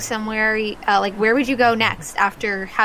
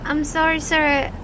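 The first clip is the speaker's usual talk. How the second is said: put-on polite child; 6 semitones higher than usual. Child declines the drink.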